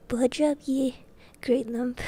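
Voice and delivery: lightly put-on rustic giant; lightly voiced giant. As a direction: order someone aside as the big stranger.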